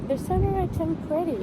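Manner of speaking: The Summer I Turned Pretty dit à la française, Summer prononcé «sameur»; accent français. Shown as a demonstration. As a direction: assumer l'accent français sur le titre. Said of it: "avec l'accent français". (accent français bien marqué)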